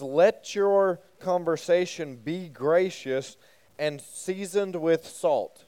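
slow, deliberate verse reading; reading scripture aloud. Shown as a demonstration. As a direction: read each word of the verse carefully for the group. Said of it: "the E S V actually says".

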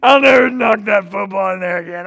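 loud high blubbering apology; father imitating his son's tearful shouting apology; mock crying kid. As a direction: wail like a sorry boy. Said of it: "my son came up".

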